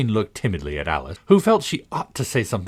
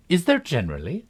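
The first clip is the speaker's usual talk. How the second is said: astonished; 9 semitones higher than usual. A narrator's reading. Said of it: "in an astonished tone".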